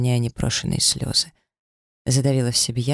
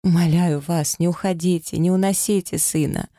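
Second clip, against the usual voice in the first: rising, begging plea, close to sobbing; pleading through held-back sobs; tearful pleading; 5 semitones higher than usual. Acted. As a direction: beg him not to take the child away. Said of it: "взмолилась".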